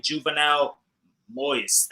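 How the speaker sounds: Juvenal Moise, each syllable spelled out slowly; careful name. Shown as a demonstration. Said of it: "That's how you say his last name".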